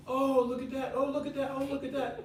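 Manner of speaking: high-pitched gushing imitation of chatty wives; hammed-up sightseer excitement; mock excited.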